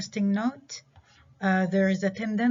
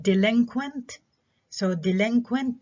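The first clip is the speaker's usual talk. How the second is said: delinquent stressed on LIN; stress second-to-last syllable; 4 semitones higher, 3 dB louder than usual. Shown as a demonstration. Teacher correcting herself, delinquent with LIN stressed. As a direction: lean on the middle of delinquent. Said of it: "the stress is on the".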